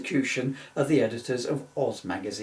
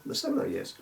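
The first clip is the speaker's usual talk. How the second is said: mock grand title; 12 semitones higher, 5 dB quieter than usual.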